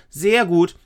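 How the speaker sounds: put-on nervous child overdoing her reassurance. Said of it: "Aber Lisa sagte nur schnell".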